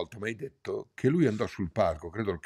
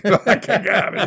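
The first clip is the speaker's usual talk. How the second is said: laughing it off, louder and slow; laughing playful protest; 7 semitones higher, 8 dB louder, slower than usual. Real, not acted. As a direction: laugh through a fake insult. Friend teases him about drinking.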